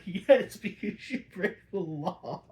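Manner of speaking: high, loud mock comeback; loud retort. Viewer answering Penguin's debate claim, loud mock comeback. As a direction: snap back at Penguin.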